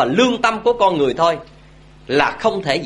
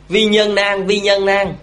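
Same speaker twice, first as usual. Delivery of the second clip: higher, level, measured recitation; held on an even, raised pitch; recited maxim; 4 semitones higher, slower than usual. Retold or imitated. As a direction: recite it like an old classical saying. Reciting a classical Confucian maxim.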